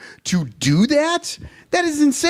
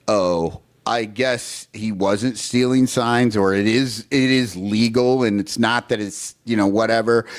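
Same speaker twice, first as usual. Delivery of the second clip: mocking coaches; 9 semitones lower than usual. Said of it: "coaches were like".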